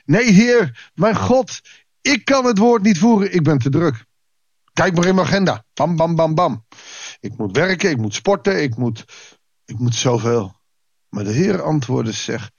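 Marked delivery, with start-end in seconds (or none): 0.1-10.6 higher, hammed-up whiny excuse; mock busy excuse. Modern believer dodging God's call with busy excuses, mock whine. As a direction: rattle off the excuses like a busy churchgoer. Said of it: "de grootste smoes die wij hebben".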